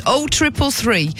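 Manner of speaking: ordinary delivery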